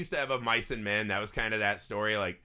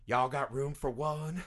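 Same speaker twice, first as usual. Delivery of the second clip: mock Kenny; slower than usual. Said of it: "And he's just like".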